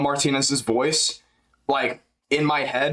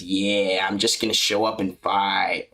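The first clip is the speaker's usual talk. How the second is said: lower, lazy fighter voice; JDM impression; 6 semitones lower, slower than usual. Doing a JDM impression for chat, lower voice. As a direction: shrug it off like JDM. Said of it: "J D M impression".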